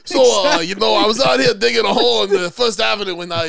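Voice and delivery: a hint of a New York construction guy; light New York tough-guy accent. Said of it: "their New York accents are like Joe Duda".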